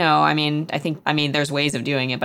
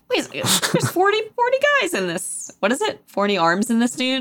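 high, hammy astonished voice; hammed-up amazement; 9 semitones higher than usual. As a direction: ham up the disbelief. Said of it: "callback to Beowulf".

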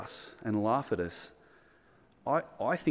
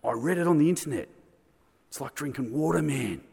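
know-it-all pub mate; 3 semitones higher than usual. Retold or imitated. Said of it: "He goes".

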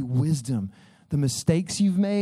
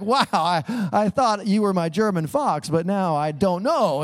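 mock disappointed husband; 5 semitones higher, 3 dB louder than usual. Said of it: "and it's like".

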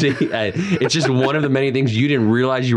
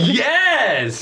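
triumphant cheer; 14 semitones higher than usual. Real, not acted. Trick succeeds, cheer.

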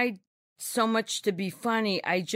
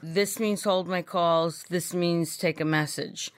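condescending boss, again; slower than usual. Retold or imitated. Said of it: "so condescending".

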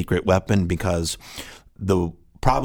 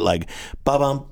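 rushed beat sound; 6 semitones higher than usual. Shown as a demonstration. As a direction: mouth beat, clipped short. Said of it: "you get".

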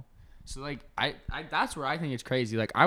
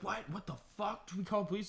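shocked disbelief; 8 semitones higher, 7 dB quieter than usual. Retold or imitated. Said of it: "You're like".

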